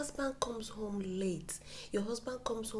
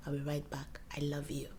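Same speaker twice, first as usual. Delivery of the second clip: soft, low whisper in his ear; tender whisper to your partner; 7 semitones lower, 6 dB quieter than usual. Shown as a demonstration. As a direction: breathe it softly into his ear. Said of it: "you whisper in his ears".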